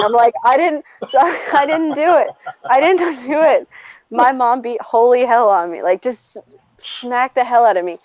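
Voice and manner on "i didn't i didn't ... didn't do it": high-pitched protest at only slightly raised volume; mock childhood scream. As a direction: imitate a kid screaming denial, without real volume. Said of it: "And I'm screaming".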